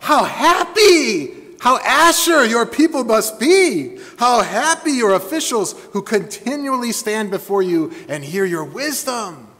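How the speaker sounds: overwhelmed with admiration; the queen gushing over the king's wisdom. Retold or imitated. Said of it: "she began to just gush".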